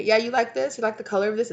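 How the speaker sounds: high, prodding questions; acted high-pitched fishing for approval; manipulative person. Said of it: "type of person that would be like".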